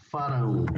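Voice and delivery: FARÃO with a nasal final ão; nasal ending. Shown as a demonstration. Teacher models the Portuguese verb for students, nasal ending on farão. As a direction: say farão, letting the ão ring through the nose. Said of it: "con acento nasal".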